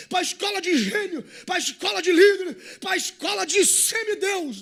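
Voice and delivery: high, loud, building pulpit cry; full-force preaching. Acted. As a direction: preach it hard, building to a desperate plea.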